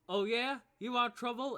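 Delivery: high, loud taunting comeback; bully's threat. Acted. Bullies threaten the other kids.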